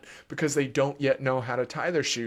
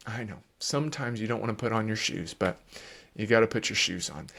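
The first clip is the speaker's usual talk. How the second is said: softer, low, steady, a bit quick; calm parent reply; 3 semitones lower, 3 dB quieter, faster than usual. Shown as a demonstration. Parent modeling a calm answer to the tantrum, softly. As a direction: answer calmly without rising. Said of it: "if you will stay calm".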